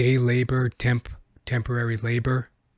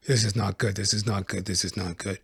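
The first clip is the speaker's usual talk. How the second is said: fading inner voice; 3 semitones lower, 7 dB quieter than usual. Retold or imitated. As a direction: repeat it, softer each time until it fades out. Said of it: "In my head, I'm like".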